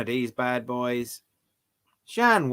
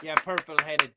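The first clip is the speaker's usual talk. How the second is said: louder, higher burst of mock indignation; mock outraged shout; 3 semitones higher, 5 dB louder than usual. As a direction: tell them off loudly, hammed-up. Acted scolding of purple-headed character.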